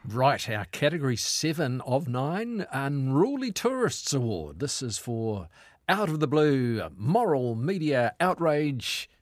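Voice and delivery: slow, drawn-out award announcement; grand, deliberate category reveal; mock awards announcer. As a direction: stretch out each word like a ceremony host, then drop away at the end.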